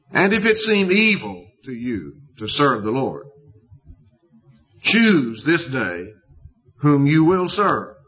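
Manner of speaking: measured, solemn read of the verses; scripture reading. Acted. Preacher reading Joshua's charge to the gathered people, solemn and measured.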